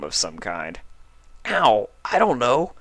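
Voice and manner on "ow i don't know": a touch of pain in a lightly voiced dragon; mild ow as his mane is tugged; wincing Spike. A narrator's reading. Spike while Applejack pulls his mane, mild wince. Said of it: "wincing as Applejack pulled".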